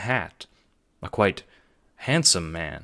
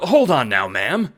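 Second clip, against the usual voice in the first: nervous plea; 8 semitones higher, 7 dB louder than usual. A narrator's reading. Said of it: "holding a fearful hand".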